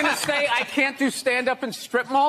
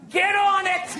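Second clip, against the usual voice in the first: higher, commanding impression of a boss; mock bossy order; 5 semitones higher than usual. Boss telling people what to invent, mock commanding. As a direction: toss out a demand like a boss.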